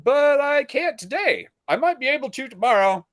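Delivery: mock apologetic officer; imitating the officer. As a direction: play the helpless clerk. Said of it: "He's like".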